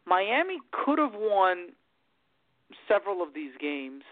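choppy, cutting out call audio; bad connection, words dropping out; radio breaking up. Real, not acted. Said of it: "you're breaking up pretty bad".

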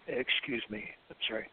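throat still catching after coughing; strained voice after coffee went down wrong; swallowed wrong way. Real, not acted. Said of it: "coffee went down the wrong pipe".

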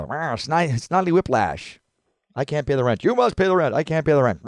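high, loud melodrama villain; sneering panto villain. Retold or imitated. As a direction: ham up the rent-demanding villain. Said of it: "cartoon character ... one note".

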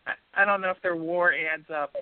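lightly nerdy, doubtful stats talk; a hint of a stats nerd; baseball nerd voice. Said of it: "that was my baseball nerd voice".

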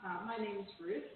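caller's voice boomy with echo; hollow phone line echo; echo chamber. Real, not acted. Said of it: "You sound like you're in an echo chamber there".

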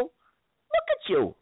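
slow scolding disbelief; disapproving. Acted. Scolding partner.

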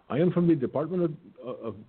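put-on stumbling caller with an Indian accent; Indian accent impression. Scammer introduces himself on a house call, Indian accent. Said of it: "I can do an Indian accent impression".

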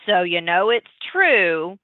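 dry little whisper, tongue in cheek; a slow sarcastic whisper on the side; sarcastic whispered aside. Real, not acted. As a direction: whisper it like a wink to the audience. Sarcastic aside on magazine trivia.

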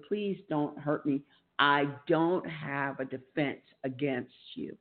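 slow, understated plea; retold pleading. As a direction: recall a plea slowly and earnestly. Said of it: "I remember pleading with him".

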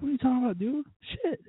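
high, baffled mock protest; hammed-up clueless surprise; mock confusion. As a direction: play dumb, rising to a startled curse. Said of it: "I was like".

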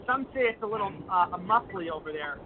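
muffled speakerphone sound; talking on speakerphone. Real, not acted. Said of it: "are you on speaker?".

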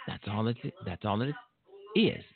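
talking with gum in mouth; chewing gum while speaking; mouth full. Real, not acted. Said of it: "I have gum in my mouth".

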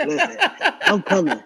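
firm, playful imitation of his wife, sharp rise on Listen; wife insisting. Wife insisting on coming along.

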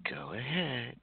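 breathy whisper, barely voiced. Real, not acted. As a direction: grant it in a hush. Whispered permission.

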